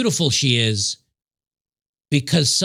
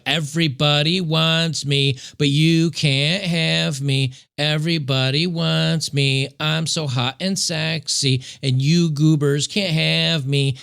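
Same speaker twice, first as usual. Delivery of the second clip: mocking taunt. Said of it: "they make this story up".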